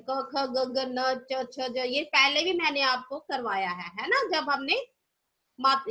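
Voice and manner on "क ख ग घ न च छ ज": slow recitation. Shown as a demonstration. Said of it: "क से ज्ञ तक क्या होते हैं व्यंजन".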